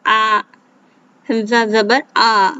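हमजा जबर आ read as a clear aa; hamza with zabar. Shown as a demonstration. Teacher shows hamza with zabar reading aa. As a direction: say आ, not alif. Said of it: "इसको हमजा".

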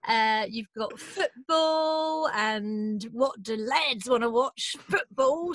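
slow, drawn-out bloke selling football; mock laddish advert voice. Co-host mocks nineties ads aimed at lads, slow and laddish. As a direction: ham up the blokey pitch, slowly. Mocking lads' advert mindset.

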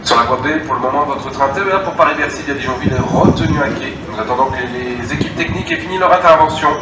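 station loudspeaker announcement; echoing public address voice; over a PA system. Real, not acted.

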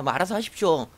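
mildly acted grumble of disgruntled subordinates; grumbling. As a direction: imitate soldiers grumbling. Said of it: "막 투덜투덜대면서".

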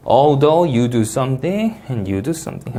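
"Although" lifted slow, the rest falling; drawn-out demo tune, up on "Although", down at the end; rise then fall. Shown as a demonstration. Teacher showing the tune of an although clause slowly. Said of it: "하고 내려 읽어주시면".

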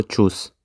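чус said slowly the German way; German word demo. Shown as a demonstration. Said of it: "читаються ось так". (чус німецькою вимовою)

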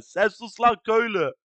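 imitating a robot voice. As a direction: say it like a stiff robot. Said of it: "O robot sesiyle".

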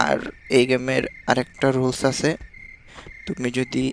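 slow, low, hushed delivery with long pauses; speaking softly. Real, not acted. Gamer retrying under the noise limit, slow and very soft. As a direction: pick the words out quietly, barely voiced. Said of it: "আস্তে আস্তে কথা কইতে হবে".

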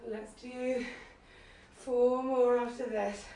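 tired and straining; spent, pushing out words; strained. Real, not acted. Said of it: "my arms probably can't do anymore".

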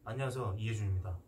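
extremely deep bass voice. Shown as a demonstration. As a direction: push the voice way down low. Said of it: "목소리 깔고 한번 연기 한번 해봐".

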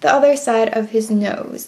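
even robot-like monotone. Real, not acted. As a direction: talk like a robot while drawing. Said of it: "I'm talking like a robot".

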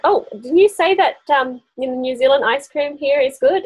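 lightly mock-innocent query; teasing question. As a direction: nudge her about the ice cream. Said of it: "I'm like".

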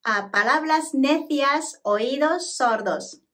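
measured, connected Spanish for repetition. Shown as a demonstration. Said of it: "今度はもう少し早めに発音してみます".

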